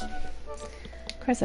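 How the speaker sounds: breathy whispered "Of course" under the breath; whispered aside. Acted. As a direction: mutter it as a secret aside. Wry aside on the trashed room.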